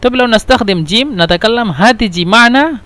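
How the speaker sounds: "هتيجي" said with a hard g instead of j; Egyptian hard g. Shown as a demonstration. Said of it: "أنا تكلمت جيم". ("هتيجي" بجيم قاهرية مثل g)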